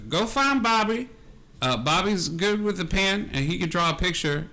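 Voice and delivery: a hint of an old camp woman giving directions. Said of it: "she goes".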